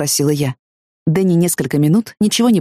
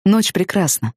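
ordinary delivery, nothing marked

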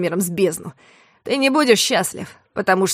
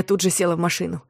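plain reading voice

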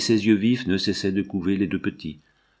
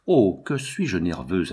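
nervous admission; slower than usual. Acted. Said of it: "avoua-t-elle".

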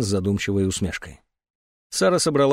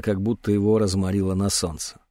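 usual speaking voice

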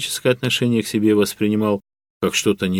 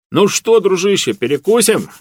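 hearty raised call up to the ceiling; 9 semitones higher, 4 dB louder than usual. A narrator's reading. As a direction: Lyokha hailing the AI loudly. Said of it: "крикнул Лёха". (громкий окрик Лёхи)

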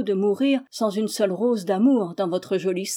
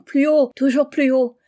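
put-on higher, louder cry of girls on a swing; playful shout; 4 semitones higher, 6 dB louder than usual. A narrator's reading. Girls swinging under a lime tree, shouting happily. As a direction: call out gleefully while swinging. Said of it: "se balançaient en criant".

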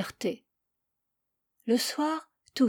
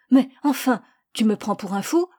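irritated; 2 semitones higher, 6 dB louder than usual. Acted. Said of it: "manifesta un commencement d'énervement".

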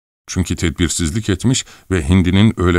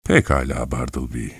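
lower, softer, grave and composed; serious and calm; 6 semitones lower, 4 dB quieter than usual. A narrator's reading. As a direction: speak with quiet threat behind the calm. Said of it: "ciddi ve sakin ... ses tonuyla".

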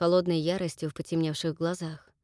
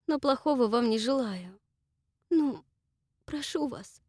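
trembling plea; 6 semitones higher than usual. Acted. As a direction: beg them to leave. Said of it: "в голосе её что-то дрогнуло".

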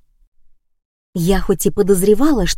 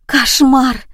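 breathless; 6 semitones higher, 4 dB louder than usual. Acted. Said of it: "её задыхающийся голосок".

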